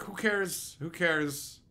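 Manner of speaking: low, sinking, drained delivery; bored indifference. Retold or imitated. Viewer stuck in a dull movie, bored and deflated. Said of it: "it was just like".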